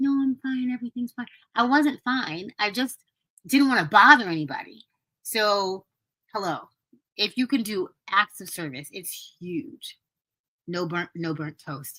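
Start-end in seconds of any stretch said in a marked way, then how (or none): 0.0-1.3 tiny, barely-there, smallest little voice. Recalling being very sick and telling callers everything was fine: imitating own tiny voice. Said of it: "in the smallest voice".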